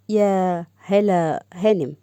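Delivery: slow, drawn-out mocking address; sarcastic. Salem to Hala as he ends their partnership, sarcastic. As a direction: stretch out the title with sarcasm. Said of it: "سالم بإنه سخرية".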